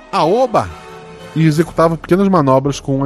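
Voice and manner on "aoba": loud, high cheer; gleeful shout. Retold or imitated. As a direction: whoop it out while riding. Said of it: "enquanto gritava".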